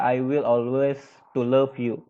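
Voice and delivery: I will always, pause, to love you as the faulty version; wrong form demo. Shown as a demonstration. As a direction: say it as the mistake to avoid. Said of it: "Pakai to, nggak bisa".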